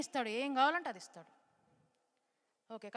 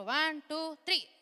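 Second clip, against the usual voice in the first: rising countdown; 4 semitones higher, 6 dB louder, much slower than usual. Real, not acted. Countdown for kids.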